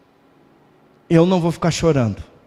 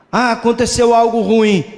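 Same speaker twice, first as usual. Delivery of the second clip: a lightly whiny moan, pitched up and a bit louder; mock lament; 4 semitones higher, 3 dB louder than usual. Preacher mimics a believer lamenting a loss, mock whiny moan. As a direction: imitate someone moaning over bad luck. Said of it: "Não adianta eu ficar chorando".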